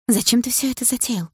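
sister's indignant question; reproachful sister. Acted. Sister angrily confronts brother.

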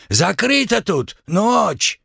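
a stern high-pitched guard stopping them; Uzbek worker. Acted. Worker shouting them away.

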